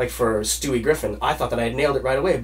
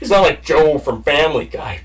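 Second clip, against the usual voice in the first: Joe impression; 5 dB louder than usual. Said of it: "Joe from Family Guy's a character".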